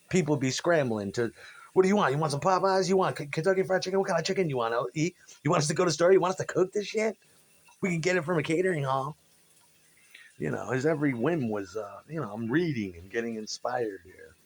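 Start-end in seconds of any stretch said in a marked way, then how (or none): 1.7-9.2 fast, high, eager offers; frantic eager staff. Retold or imitated. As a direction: rattle off offers like panicked staff. Scrambling staff offering a singer chicken.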